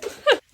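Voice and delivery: short high, loud laugh. Real, not acted. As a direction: burst out in a brief high laugh. Rire après la tradition. (petit rire aigu et sonore)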